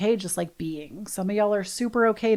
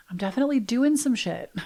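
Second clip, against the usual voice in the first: quick giggly whisper, a bit higher; laughing whisper; 3 semitones higher, faster than usual. Real, not acted. Confessing to listeners with a hushed giggle. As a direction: whisper it through a laugh like a naughty secret.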